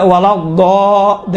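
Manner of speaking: slow ولا ضا with a heavy, held ضا; thickened ض. Shown as a demonstration. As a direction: thicken the d into ض and hold ضا. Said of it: "موٹا بنائیں".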